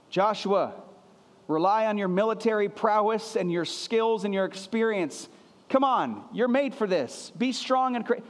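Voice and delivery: wrong tone, a cheering coach rallying Joshua; pep talk coach voice. Shown as a demonstration. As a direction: pump him up like a coach. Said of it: "It's not it. It's not his tone".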